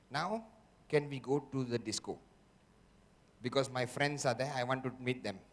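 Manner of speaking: the voice of doubt coaxing you to quit, low and soft; tempting inner voice. Acted. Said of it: "the voice will go".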